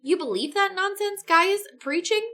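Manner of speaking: scoffing pilot. Acted.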